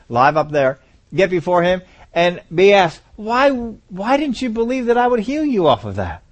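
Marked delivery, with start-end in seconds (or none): 3.2-6.2 lightly voiced God, higher and slow; a higher, drawn-out appeal as God; God's questioning. God asks the believer in heaven, gently voiced higher questioning.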